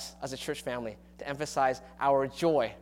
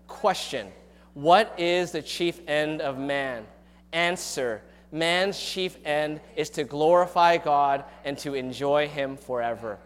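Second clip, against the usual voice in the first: slow, measured catechism read aloud together; slow unison reading; slower than usual. Acted. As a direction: lead the church through the answer, slowly and solemnly. Congregation reads catechism aloud.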